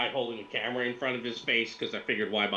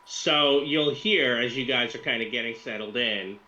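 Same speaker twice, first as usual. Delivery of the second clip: ordinary talk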